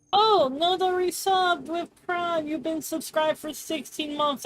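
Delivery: high slow surprised gasp. Real, not acted. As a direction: pitch it up in surprise. Surprised high read of sub.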